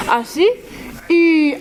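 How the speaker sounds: Assis then a long bright I with lips spread; drawn-out I vowel. Shown as a demonstration. Teacher shows the class how to say I, lips spread. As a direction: hold the I sound, mouth stretched. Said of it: "Et vous prononcez I".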